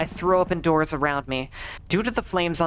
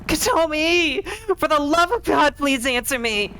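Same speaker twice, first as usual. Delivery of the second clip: high, loud, begging yell; frantic plea; desperate shout; 12 semitones higher, 5 dB louder than usual. Acted. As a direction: scream for her to answer. Searching burning house, screaming.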